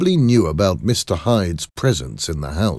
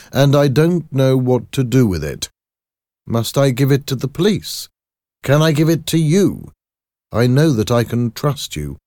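raised, higher voice, pressing for trust; agitated doctor, pleading; 8 semitones higher, 5 dB louder than usual. Acted. Doctor asks his lawyer about Hyde's letter, urgent and high. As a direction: appeal to a friend, high and insistent. Voices Jekyll confiding in Utterson.

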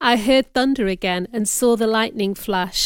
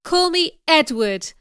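slow, high-pitched urging; drawn-out, impassioned request; insistent plea; 6 semitones higher, 4 dB louder than usual. A narrator's reading. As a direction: urge it emphatically.

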